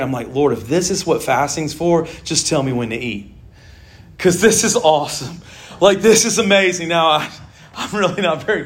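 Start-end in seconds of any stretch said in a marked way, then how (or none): 0.3-6.9 sarcastic. Retold or imitated. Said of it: "be sarcastic to make a point".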